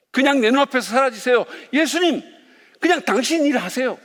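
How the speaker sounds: high, agitated mock demand; imitated exasperated brush-off, high-pitched; acted protest. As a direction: tell him off as the cornered demon, pitched well up. Acting out the demon's protest.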